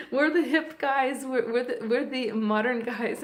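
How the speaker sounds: imitating wounded pride, loud at first with a laugh; mock indignant. Men defend themselves to her, mock indignant. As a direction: playfully protest as the offended guys. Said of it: "they're all getting upset".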